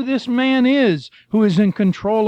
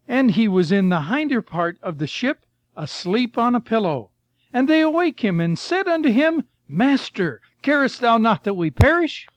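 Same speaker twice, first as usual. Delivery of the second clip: scripture reading. Acted. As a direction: read the verse like from the pulpit. Reads scripture aloud.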